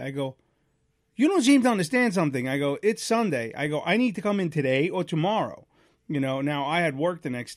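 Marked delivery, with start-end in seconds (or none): 1.1-5.7 retold firm insistence. Customer pushing Honda for an earlier appointment, firm and testy. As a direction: lay it down firmly to a service desk.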